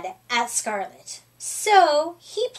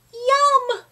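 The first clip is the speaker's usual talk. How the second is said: yum; 11 semitones higher, 5 dB louder than usual. A narrator's reading. Happy shout of agreement.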